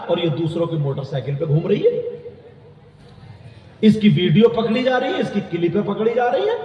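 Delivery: animated sermon scolding; preaching rebuke. Real, not acted.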